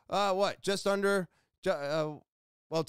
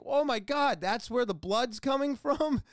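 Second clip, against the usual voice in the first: amazed; 7 semitones higher than usual. Retold or imitated. Learning where the blood comes from.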